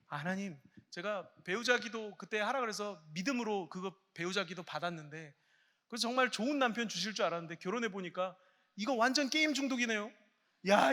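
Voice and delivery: imitating a disappointed wife griping at God; griping believer. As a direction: grumble at God, then blow up with fed-up disbelief. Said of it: "막 이렇게 생각하시는 분들이 있어요".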